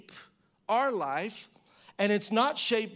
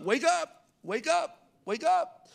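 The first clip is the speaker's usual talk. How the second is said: panicked disciples; 3 dB louder, much slower than usual. Retold or imitated. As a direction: cry out as if the boat is sinking. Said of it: "this is the way he said".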